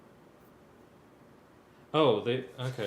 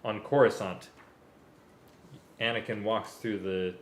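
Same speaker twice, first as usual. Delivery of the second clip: story narration; 10 dB louder than usual. A narrator's reading. Reads Star Wars story aloud.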